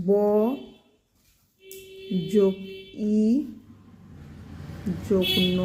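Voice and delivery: "ব", "যোগ", "ই", "যোগ ন" with long pauses; spelled out letter by letter. Shown as a demonstration. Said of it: "কটা বর্ণ রয়েছে?". (থেমে থেমে বানান করে বলা)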